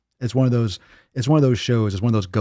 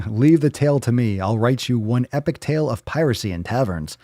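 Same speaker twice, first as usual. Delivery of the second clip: Irish pirate. Acted. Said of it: "turning Irish and pirate".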